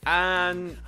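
low, hushed post-match manager; lightly voiced gloomy manager; quiet manager interview voice. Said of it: "let's hear from the manager".

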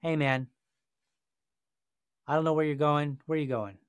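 easygoing, unhurried officer approach; non-aggressive, friendly. Pretend. Officer casually greeting a pulled-over driver, non-aggressive. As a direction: open casually, no edge at all. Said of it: "You didn't have to be aggressive".

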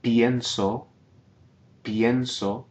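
Pienso with ie in one glide; one syllable. Shown as a demonstration. Teacher models Pienso, ie in one syllable. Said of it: "single syllable".

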